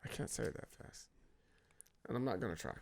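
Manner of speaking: low, soft, understated refusal; handsomely said. Real, not acted. Husband refusing the fast alphabet challenge, low handsome delivery. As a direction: decline smoothly, dropping low and quiet. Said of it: "Oh, you said that so handsomely".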